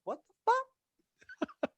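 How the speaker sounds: very high slow drawn-out what the fuck; stunned what the fuck. Retold or imitated. Reacting to Seagal's stories, slow high disbelief. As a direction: stretch it out in total disbelief. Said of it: "I'm like".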